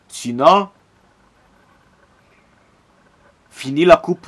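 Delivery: loud warning; ranting warning. Real, not acted. Fan warns viewers of the stakes, loud. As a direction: threaten the fans' worst case. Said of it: "Coup de gueule de Big Alan maintenant".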